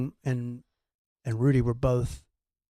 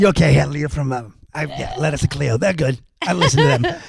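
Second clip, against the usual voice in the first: comic imitation of a chatty rock guitarist; lightly put-on interviewee voice, growing louder; 4 dB louder than usual. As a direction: imitate a rocker making small talk. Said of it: "actual quotes from my interview with a rock guitarist".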